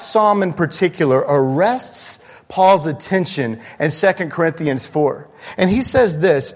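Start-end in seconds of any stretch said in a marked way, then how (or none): none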